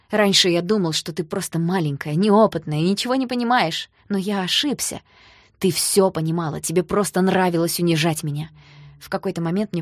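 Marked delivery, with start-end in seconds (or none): 0.1-8.5 loud, bitter reproach; bitter accusation. Acted. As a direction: accuse her with hurt pride. Danya bitterly accuses her.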